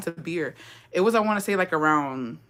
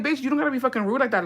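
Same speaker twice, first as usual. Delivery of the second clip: mock comeback; 6 semitones higher, faster than usual. Imagined comeback to rude vendor.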